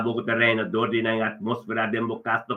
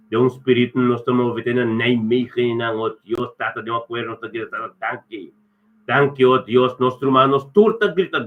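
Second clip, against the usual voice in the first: rolling thanksgiving with surges of force; fervent prayer. Real, not acted. Pastor thanking God for a couple's life, fervent prayer. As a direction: keep the blessings flowing in chant-like phrases. Prays blessings over named people.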